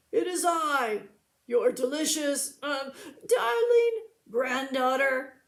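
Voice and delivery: lightly put-on sweet granddaughter voice; wolf in a high voice. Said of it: "said the wolf in a high voice".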